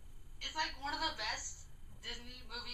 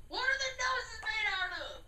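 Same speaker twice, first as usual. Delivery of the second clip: laughing; 8 semitones higher, 4 dB louder than usual. Real, not acted. Can't find the word, laughing.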